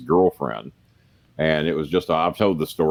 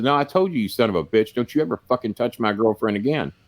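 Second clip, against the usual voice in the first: retold angry warning, pitched up; really mad; 4 semitones higher than usual. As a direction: imitate a mad man's threat, starting high. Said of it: "So he's really mad".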